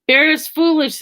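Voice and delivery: high mocking squirrel taunt; high teasing singsong. A narrator's reading. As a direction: taunt the bear, gleeful. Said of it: "began to tease Bear".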